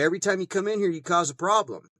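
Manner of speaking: high, fast mock of a snippy clerk; mocking the employee. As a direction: squeak it out as the rude employee. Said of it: "he goes".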